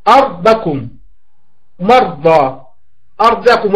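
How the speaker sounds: أرضكم with a thick, emphatic sakin r; teacher giving model words with a heavy sakin r. Shown as a demonstration. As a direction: carefully sound the heavy r in مرضى. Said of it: "مفتوح مثل مرحبا".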